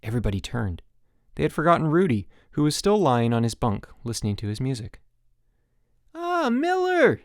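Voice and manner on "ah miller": high, slow, sing-song; said brightly. A narrator's reading. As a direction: greet him with sugary cheer. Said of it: "said Chip brightly".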